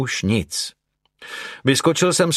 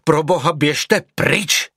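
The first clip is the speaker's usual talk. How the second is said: high, urgent outburst; raised, desperate exclamation; crying out; 6 semitones higher, slower than usual. A narrator's reading. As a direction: cry out to drive someone away. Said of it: "vykřikl jsem".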